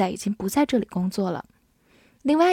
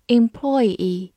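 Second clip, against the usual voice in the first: employee stressed on PLOY; second-syllable stress. Shown as a demonstration. Teacher showing learners another reading of employee, stress on PLOY. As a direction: punch the middle "ploy" in employee, lighter final "ee". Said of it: "重音是在第二个音".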